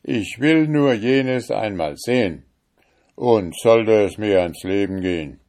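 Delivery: loud, high stubborn refusal; defiant cry. Acted. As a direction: shout him down, unyielding. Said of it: "rief der Richter". (laut trotzig gerufen)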